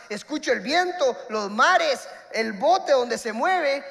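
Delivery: sermon delivery, slow on key lines; earnest church sermon; preaching. Acted. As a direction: preach the point with conviction. Preaching the moral.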